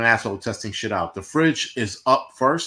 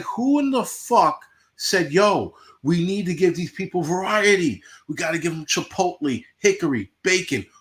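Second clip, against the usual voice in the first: mock outraged disbelief; 5 semitones higher than usual. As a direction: act out baffled outrage at the Spam shelf. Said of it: "I'm like".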